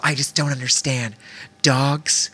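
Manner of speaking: mildly mock a complaining stranger; whiny lady. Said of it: "She's like".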